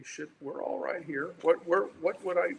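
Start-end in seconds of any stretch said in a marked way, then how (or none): 1.7-2.5 echoing tunnel. Real, not acted. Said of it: "you sound like you're in a tunnel".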